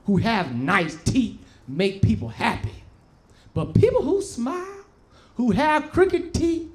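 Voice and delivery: slow, measured motherly advice with pauses between phrases; imitating a mother consoling her child; mother's gentle lesson.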